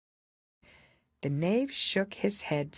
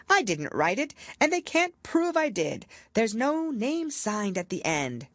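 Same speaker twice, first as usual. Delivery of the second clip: higher, anxious plea; pleading knave; 7 semitones higher than usual. A narrator's reading. Knave pleading his innocence to the king. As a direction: beg the king.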